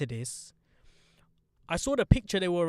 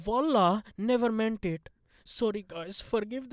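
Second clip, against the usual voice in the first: raised, put-on Indian accent; mock apology; 5 semitones higher, slower than usual. Reading out the actress's apology, put-on Indian accent. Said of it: "then posted an apology going".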